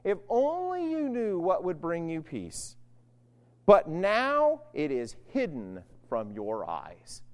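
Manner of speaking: slow, grieving plea; mild tearful lament. Retold or imitated. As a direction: draw it out slowly with understated sorrow. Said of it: "and he's crying".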